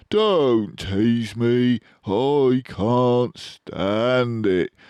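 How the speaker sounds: pleading badger. A narrator's reading. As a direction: beg him to stop teasing.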